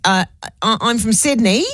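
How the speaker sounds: statement lifted into a question at the end; Australian uptalk. Retold or imitated. Imitating an Australian friend, rising at the end. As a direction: make Sydney rise like you're asking. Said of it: "they go up at the end of a sentence".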